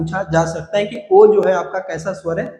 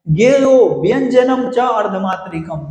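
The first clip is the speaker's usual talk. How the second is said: 1 recited shloka; slower than usual. Shown as a demonstration. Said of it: "ये श्लोक आप याद कर सकते हो".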